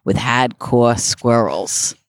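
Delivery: put-on slow, drawn-out Boston accent. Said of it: "working on your Boston accent".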